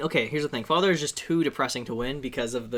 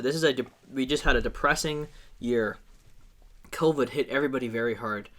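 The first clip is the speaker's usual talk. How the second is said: sincere hard sell ad read; commercial voice. Pretend. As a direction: sell it like a TV spot. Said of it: "You're using your commercial voice".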